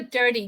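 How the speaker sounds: "dirty" with the T softened to a D; transatlantic pronunciation. Shown as a demonstration. Teacher quoting Prince Harry's title, "dirty" said with a D sound. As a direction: say "dirty" like "durdy". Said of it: "phonetically how dirty is pronounced when pronounced in a transatlantic accent".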